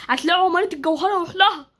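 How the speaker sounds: high quick irritation; exasperated. Acted. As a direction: hurry the kid off. Stranger exasperated directions.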